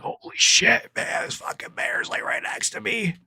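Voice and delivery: hushed, whispered imitation of a frightened guy; whispered reaction. Guy in the tree beside a bear, whispered alarm. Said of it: "The guy's like".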